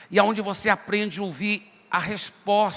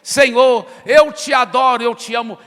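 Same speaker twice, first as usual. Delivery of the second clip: shouted prayer; 3 semitones higher, 8 dB louder than usual. Retold or imitated. Preacher mimicking someone shouting prayers without pause, loud. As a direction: blast the prayer out nonstop. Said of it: "ora desse jeito".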